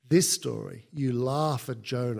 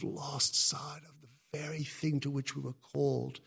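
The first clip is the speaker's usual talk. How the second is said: whisper; 7 dB quieter than usual. Acted.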